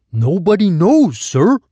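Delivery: put-on high, thin, timid old voice; a frail old man managing to speak; old man's thin voice. A narrator's reading. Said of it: "managed to say".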